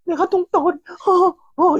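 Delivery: high, stunned stammering voice; a high shaken 아, 내가 똥덩어리; shocked stammer. Retold or imitated. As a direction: reel from the insult in disbelief. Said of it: "이러면서 이제 좀 약간".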